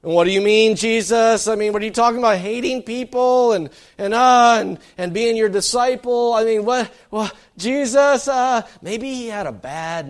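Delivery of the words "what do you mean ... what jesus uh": higher and louder, incredulous questioning; baffled crowd. Retold or imitated. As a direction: voice a bewildered listener who can't believe it. Crowd's baffled reaction voiced by preacher.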